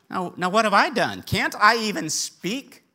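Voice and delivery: mock-exasperated, stretching the last question; protesting little brother. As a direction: protest like the picked-on brother at a family gathering. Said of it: "Doesn't that sound like a family reunion?".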